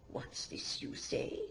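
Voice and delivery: whisper. Acted. Midwife questioning the girl.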